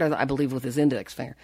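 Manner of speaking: ordinary talk, nothing marked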